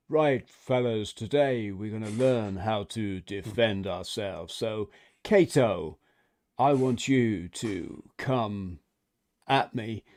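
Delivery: lightly voiced calm master; slow, measured teacher addressing the class; kung fu master. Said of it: "sounds like some kung fu master".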